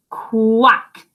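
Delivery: unvoiced quack; whispered quack. Duck voiced.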